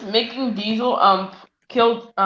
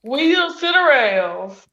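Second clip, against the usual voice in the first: cartoon catchphrase; 4 semitones higher, much slower than usual. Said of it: "From Chuggington".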